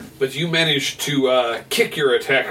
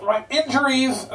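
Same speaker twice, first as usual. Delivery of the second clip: broken radio voice; 12 semitones higher, slower than usual. Acted. Garbled radio transmission crackling.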